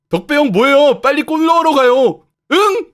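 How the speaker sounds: loud, high, innocent calls; cheerful and oblivious; carefree striker. Acted. Striker cheerfully urges Debra. (해맑게 높고 크게 재촉하기)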